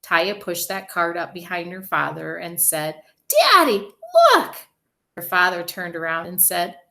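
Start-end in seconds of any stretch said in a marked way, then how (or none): 3.3-4.5 put-on high, loud child's call; excited little girl calling Daddy. A narrator's reading. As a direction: call out proudly to dad. Child calls to her father.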